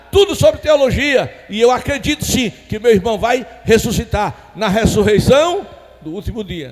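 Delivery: high, shouted pulpit proclamation; fiery, emphatic sermon delivery; full-force preaching. Acted. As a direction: hammer it out loud to the congregation.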